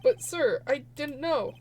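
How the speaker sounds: lightly voiced pleading patrolman; a hint of a flustered junior officer; Mike Meekins. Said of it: "you also have to play Mike Meekins".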